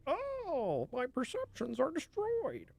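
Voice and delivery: high, slow, theatrical anguish; dramatic despair. Pretend. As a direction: wail like a ruined aristocrat.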